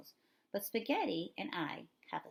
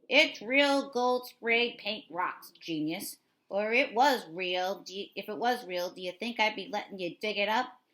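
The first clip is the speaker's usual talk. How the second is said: put-on mean Philadelphia accent; 3 semitones higher, 7 dB louder than usual. A narrator's reading. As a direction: talk down to the kids in a Philly accent. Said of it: "in a mean-sounding Philadelphian accent".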